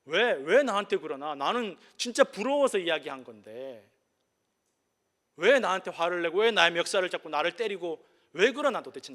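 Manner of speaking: mildly hammed-up bewilderment; baffled protest. Father baffled by his friend's anger, acted indignant protest. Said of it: "왜 친구가 화를 내는지 모르겠다라는 거예요".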